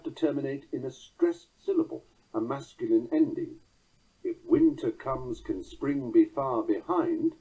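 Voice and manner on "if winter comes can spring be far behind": slow, measured line of poetry; verse recitation. Shown as a demonstration. Lecturer quoting a permissible line, slow verse recitation. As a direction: recite it slowly on the beat. Quotes verse with masculine ending.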